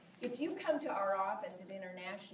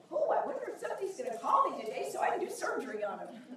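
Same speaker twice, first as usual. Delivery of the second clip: mock doctor, fast; 3 semitones higher, 5 dB louder, faster than usual. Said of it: "imagine a doctor saying".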